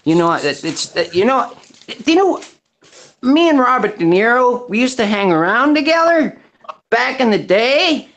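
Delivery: put-on American accent; casual mock American accent. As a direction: play a chatty American name-dropper. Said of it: "I'll stick with the American accent".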